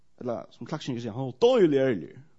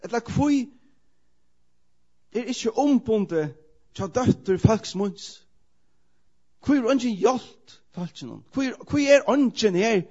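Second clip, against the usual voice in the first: high, loud and slow lament; crying out; 7 semitones higher, 6 dB louder, slower than usual. Retold or imitated. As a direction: cry each question out to the crowd, slowly. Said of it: "Ropar han atter". (langsomt, høyt klagerop)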